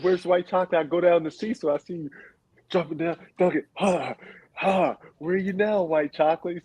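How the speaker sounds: put-on a light Boston accent, coach taunting; mock Boston accent. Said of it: "How he got a Boston accent".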